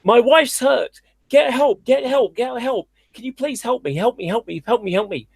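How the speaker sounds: imitating a panicked husband begging for help at a roadside; mock desperate plea. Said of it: "he's basically saying in Spanish".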